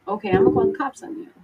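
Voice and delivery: fast, high, nervous warning. Retold or imitated. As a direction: blurt out the threat to call the cops, rushed and jittery. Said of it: "my impression was to warn him".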